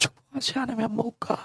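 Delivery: very quiet, weak, exhausted voice, all strength drained. Sermon retelling Jacob's plea for a blessing, acting drained of all strength. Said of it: "이렇게 이렇게 기운이 다 빠져서".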